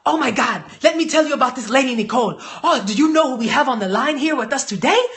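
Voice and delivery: put-on fast, gushing hype voice with an accent; excited imitation of his downline. Imitating his director hyping her to a prospect, excited. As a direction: gush about the sponsor on the phone. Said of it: "He's like".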